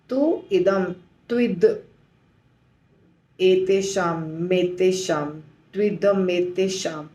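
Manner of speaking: त्विद, then एतेषाम, then त्विदमेतेषाम; slow build-up. Shown as a demonstration. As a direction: build त्विदमेतेषाम slowly piece by piece. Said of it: "ऐसे बोलना होगा". (धीरे-धीरे जोड़कर बोलें)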